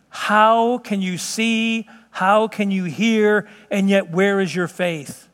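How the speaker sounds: slow, drawn-out questions, beside himself; exasperated disbelief. Acted. Preacher voicing Jesus to the faithless, slow exasperation. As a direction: stretch each question out in pained disbelief. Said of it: "he was next to himself with just".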